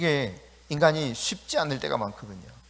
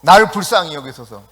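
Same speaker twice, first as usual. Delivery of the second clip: loud crying out; 3 semitones higher, 9 dB louder than usual. Acted. Preacher showing how Bartimaeus shouted to Jesus, loud crying out. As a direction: shout it out at full voice. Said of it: "그렇게 크게".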